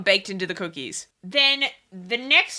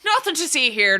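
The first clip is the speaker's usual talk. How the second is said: put-on old-time Irish cop; 5 semitones higher than usual. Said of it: "an Irish cop impression".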